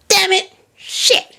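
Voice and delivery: high, slow, drawn-out mock curse; imitating mom cursing. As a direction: mom fumbling in the kitchen, hammed-up annoyance. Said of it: "she's like".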